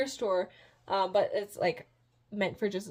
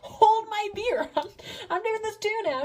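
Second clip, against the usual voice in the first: breezy demoness; 7 semitones higher, 5 dB louder than usual. Retold or imitated. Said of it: "and she's like".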